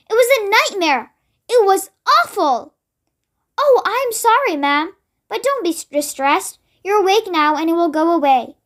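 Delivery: a hint of a frightened royal lady; lightly voiced, a touch shaken by a nightmare; lightly voiced queen, distressed. The Queen recounts her dream.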